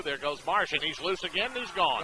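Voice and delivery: rising excited play-by-play shout; touchdown call. Real, not acted. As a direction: build to a roaring touchdown call. Live touchdown run call.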